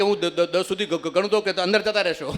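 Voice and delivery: stuck on દ- and ગ-; mock stammer. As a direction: stammer the reply. Stammerer answers pilot.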